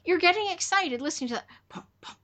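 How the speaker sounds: high, fast, amazed disbelief; incredulous. Retold or imitated. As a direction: scoff in disbelief. Retelling disbelief at client's fetish.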